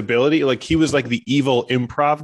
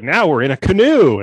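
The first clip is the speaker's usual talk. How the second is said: hammed-up announcement; 3 semitones higher, 6 dB louder than usual. Deer improviser announcing scene.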